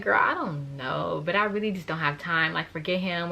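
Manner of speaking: low, soft and unbothered; softly telling her friend to forget him; quiet brush-off. Retold or imitated. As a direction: wave it off quietly to your friend. Calm reply to best friend.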